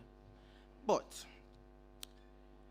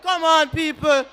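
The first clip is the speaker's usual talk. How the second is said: exasperated shout; 4 semitones higher, 7 dB louder than usual. Real, not acted. Exasperated appeal to audience.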